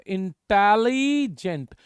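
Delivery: "इंटेलिजेंट" stretched in two parts, long इंटेली then जेंट; syllable demo. Shown as a demonstration. Teacher introduces a two-twist word to students, "इंटेलिजेंट" drawn out by parts. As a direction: draw out the "ली" in "इंटेलिजेंट". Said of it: "बोलकर देखिए, आपकी टंग दो बार twist".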